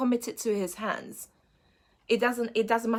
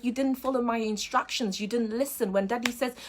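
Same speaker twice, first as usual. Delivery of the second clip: a hint of a father gently scolding; lightly voiced dad, firm then soothing; dad gently scolding his little daughter; gentle scolding dad; 3 semitones higher than usual. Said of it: "scolds her gently".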